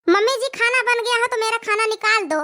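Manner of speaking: daughter-in-law voice. Acted. Young bride calls mother-in-law.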